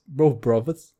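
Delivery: amateur Cockney, th turned to v; put-on London Cockney accent. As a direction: imitate a Cockney saying "brothers". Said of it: "he fucking Cockney accent?".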